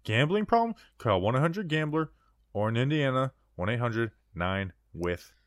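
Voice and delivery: rapid legal disclaimer voice; ad disclaimer read. Acted. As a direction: read the fine print like an ad.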